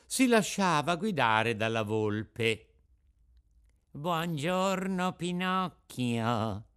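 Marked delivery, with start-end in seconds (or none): 3.9-6.6 slow, smooth and courteous; a drawn-out, ingratiating fox hello; polite fox greeting. Acted. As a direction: greet him sweetly, drawing it out. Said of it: "salutandolo garbatamente".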